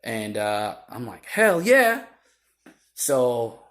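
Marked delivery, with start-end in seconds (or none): 1.3-2.0 eager agreement. Retold or imitated. Eager answer to request for statement.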